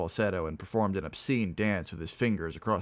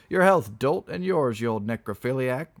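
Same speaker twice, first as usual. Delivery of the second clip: high, loud drinking toast; roared toast; 5 semitones higher, 6 dB louder than usual. Acted. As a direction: roar it across the table. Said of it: "roared the heavy one".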